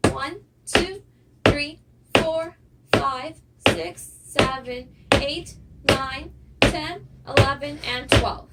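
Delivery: loud, punched dance count; counting out steps. Shown as a demonstration. Dance teacher counting twelve singles for students, loud count. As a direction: call out each count firmly for dancers.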